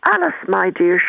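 put-on posh Anglo-Irish accent. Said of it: "very posh Anglo-Irish accent".

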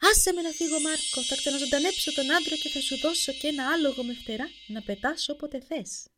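a caught fairy shrieking to be let go. A narrator's reading. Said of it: "Άρχισε να τσιρίζει". (τσιριχτή, υψηλή φωνή νεράιδας που ικετεύει)

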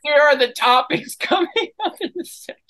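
loud announcer. Acted. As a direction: call it out to the room.

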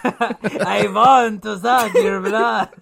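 a mock Dracula drawl, drawn out and loud. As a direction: ham up Dracula through a laugh.

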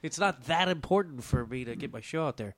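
blocked nose, congested voice; stuffy nose. Real, not acted. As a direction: talk through a stuffy nose. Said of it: "I'm so stuffy right now".

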